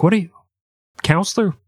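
a hint of a stern judge; lightly voiced judge questioning. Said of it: "He's like".

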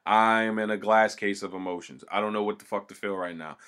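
low, quiet and dejected; a deflated Giants fan, voice sunk down; sad dejected tone. Real, not acted. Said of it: "you heard my tone and everything fucking change".

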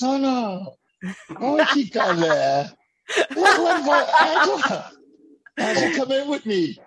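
comic welcoming two fans, hammed-up and high; hammed-up flirty self.

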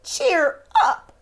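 bright call to cheer them up; cheery cry. Acted. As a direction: lift everyone's spirits. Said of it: "cried the little toy clown".

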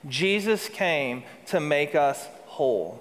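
slow unison-style repetition, inviting them in; preacher leading the congregation in saying it slowly. Shown as a demonstration. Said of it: "Would you say that with me?".

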